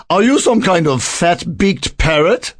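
high little bird retorting, rising at the end; tiny bird. A narrator's reading. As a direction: fire the question back in a small bird voice.

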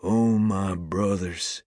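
slow, drawn-out solemn address; intoned. A narrator's reading. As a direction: intone it gently, stretching the words. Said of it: "he intones".

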